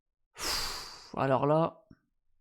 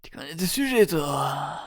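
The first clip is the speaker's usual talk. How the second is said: small suave voice. Retold or imitated. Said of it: "Avec une petite voix, petite voix suave".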